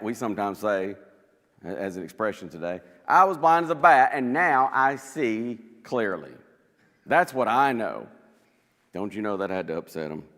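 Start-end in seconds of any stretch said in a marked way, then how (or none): 3.1-8.1 loud and emphatic, each claim landing hard; bold loud answer. Acted. Healed blind man answering the Pharisees, loud and firm. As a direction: stand up to them with a ringing voice.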